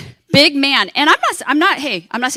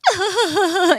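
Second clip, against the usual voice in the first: mock hysterical noise; 8 semitones higher than usual. Retold getting off the plane.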